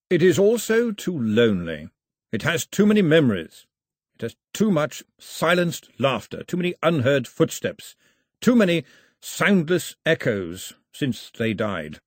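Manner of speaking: heavy, measured, grieving weight; father silencing his mother with grief; slabs of thunder. Acted. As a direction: drop each phrase like a stone. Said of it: "words came out like slabs of thunder".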